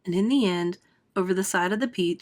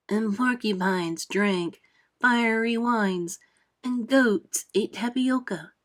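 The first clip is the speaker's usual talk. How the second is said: centipede's rollicking song; 2 semitones higher, slower than usual. Acted. Centipede sings favorite song.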